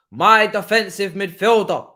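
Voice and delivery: slow, loud and savoured; drawn-out praise. Acted. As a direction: stretch each word out like a proud fan.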